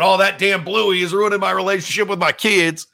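put-on light Southern accent, lightly done; Dale Earnhardt Junior Southern accent. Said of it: "I broke out my little Southern accent there".

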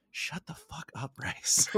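hushed, breathy whisper under the breath; muttered whisper. Retold or imitated. Golfer cursing at the coach beside the tee, whispered under his breath. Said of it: "he whispers under his breath".

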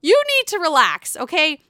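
high, breathless mock Teresa; Teresa impression. Mocking Teresa snapping at her sister-in-law, high squeal. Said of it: "Teresa's like".

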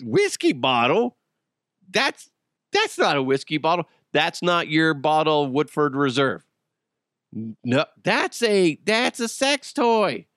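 hammed-up denial, stretched at the end; mock indignant excuse. Arrested suspect making excuses to police, mock indignant.

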